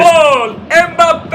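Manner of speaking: loud shouted goal call; screaming football commentator. Acted. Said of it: "football match playing".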